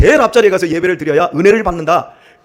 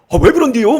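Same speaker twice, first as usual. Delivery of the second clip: lilting Jeolla dialect, slightly higher; Jeolla accent; 4 semitones higher, 5 dB louder than usual. Retold or imitated. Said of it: "전라도 분들이". (전라도 사투리로 느긋하게)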